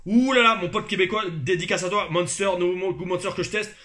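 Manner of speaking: ouh là là crié haut et fort; s'emballe devant la canette; excité. Real, not acted. Excité par le Monster. (très excité, voix haute et forte)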